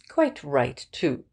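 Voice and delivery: Wimsey agreeing emphatically; emphatic. A narrator's reading. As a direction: press "Quite" down hard. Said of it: "said Wimsey emphatically".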